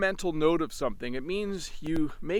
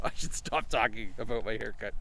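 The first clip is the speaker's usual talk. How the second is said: laughing; 6 semitones lower, 6 dB quieter than usual. Real, not acted.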